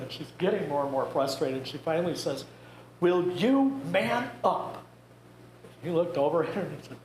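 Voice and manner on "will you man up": higher, slow exasperated wife's demand; a hint of a fed-up wife; mock scolding wife. Dying wife scolds stoic husband.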